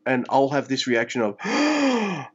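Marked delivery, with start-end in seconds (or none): 1.4-2.3 awestruck. Retold or imitated. Same gasp reaction, retold.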